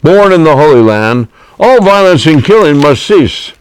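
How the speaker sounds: slow, measured poem reading; poem recitation. Acted. Poet reciting his peace poem to the host. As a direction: recite the verses like a sermon.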